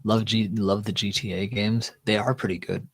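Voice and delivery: tipsy stumble over words. Real, not acted. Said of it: "can you tell I'm tipsy?".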